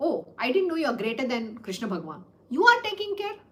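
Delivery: gently mock the boast, as if amazed. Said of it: "He just mockingly spoke like this".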